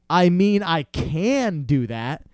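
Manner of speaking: slow, hesitant giving in; retold caving, words dragged out; reluctant agreement. Customer caving to the salesman, slow and reluctant.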